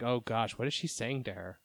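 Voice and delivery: quiet, low-key imitation of an anxious aside; hushed worried thought. Host imagines what mom thought as daughter whispered, hushed worry.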